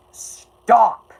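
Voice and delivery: loud, high shout of stop; sharp shout. Real, not acted. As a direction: cut them off loudly. Yelling at the chat.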